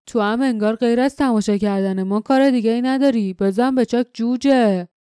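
a touch of gruff grumble; grumbling. Acted. Glock grumbles at Jasmine to clear off, mildly gruff. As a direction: grouse it back at her, dismissive. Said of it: "گلاک غرغر کرد".

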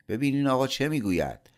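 the manager fuming to the engineer; angry. A narrator's reading. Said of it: "مدیر با عصبانیت گفت".

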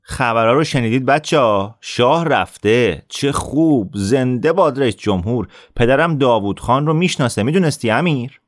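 bully bragging with a smirk; smirking boast. Acted. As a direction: gloat with a smirk. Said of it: "آصف که پوزخندش به جا بود گفت".

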